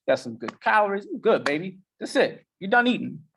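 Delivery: cheerful voice of a well-fed brain; brain talking. Retold or imitated. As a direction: play your content brain telling you it's full. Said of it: "your brain's like".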